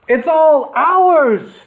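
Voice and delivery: high, loud, slow triumphant cheer. A narrator's reading. Robbers cheer in the treasure chamber, loud and high. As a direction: shout in triumph over the gold. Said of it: "they cheered".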